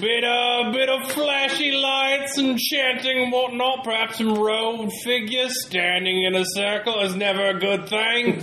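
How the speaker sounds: lightly voiced old-timey gent; Stony Smithson voice. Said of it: "Stony Smithson here".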